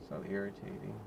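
low, soft grumble under the breath; muttered annoyance. Real, not acted. Driver locked out of the community grumbles to herself, low mutter. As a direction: mutter it to yourself, fed up. Stuck at gate, no reply.

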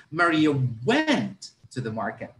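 "went" punched and lengthened; teacher stressing "went" for the action. Shown as a demonstration. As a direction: lean on "went" to show what she did. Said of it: "focus more on what Maria was doing".

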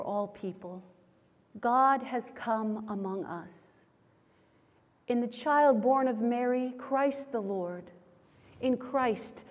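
solemn measured prayer voice; liturgical prayer. Acted. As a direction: pray it slowly and reverently. Leads confession and prayer.

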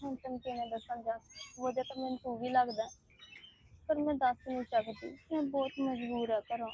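soft, hushed, sorrowful confession to herself; a helpless girl admitting she can't say it; quiet sorrow. Acted. Alone, confessing her helplessness. (ਹੌਲੀ ਉਦਾਸ ਆਵਾਜ਼ ਵਿੱਚ)

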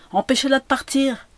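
high, loud, urgent order; alarmed. A narrator's reading. Café owner to customers, alarmed. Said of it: "dit la patronne alarmée".

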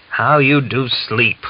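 slow, drawn-out grumbling reproach; grumbling curse. A narrator's reading. Grandfather scolding Mitka who won't wake: slow grumbling curse. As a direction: scold the sleepy lad, dragging it out. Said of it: "the old man cursed".

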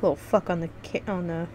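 halting, stumbling over the words; stuttering. Real, not acted. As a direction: trip over the words as you go. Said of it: "There I go, stuttering".

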